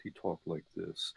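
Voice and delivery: low, hushed, confidential undertone; like covertly selling reefer in a men's room; Glenn O'Brien impression. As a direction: imitate a man you can barely hear. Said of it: "he pitched his voice".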